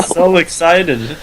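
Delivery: slow, dry, laughing sarcasm; deadpan mock excitement, laughing; sarcastic. Real, not acted. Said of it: "You excited?".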